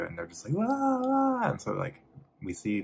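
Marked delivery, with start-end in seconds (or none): 0.6-1.5 very high wailing "wah, wah"; imitated kid screaming. Brady kids screaming into the phone, high mock wail. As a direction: mimic shrieking kids as a high whine. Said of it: "like, screaming".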